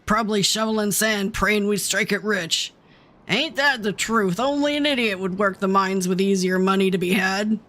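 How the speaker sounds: lightly played Southern bandit chatter; Southern accent. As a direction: chat like a Southern outlaw. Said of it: "doing the Southern accent".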